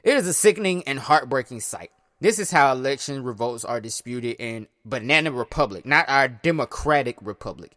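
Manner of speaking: reading statements aloud like a news report; measured news-read delivery; news quote read. Acted. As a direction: read the presidents' quotes out steadily.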